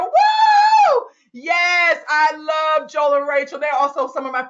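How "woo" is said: high, loud "woo" of celebration; excited whoop. Real, not acted. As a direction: let out a piercing cheer. Cheering praise for a couple.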